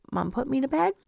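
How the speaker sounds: a hint of a tired little boy asking for mom; imitating her son. Mom mimics her son asking to be put to bed, lightly childlike.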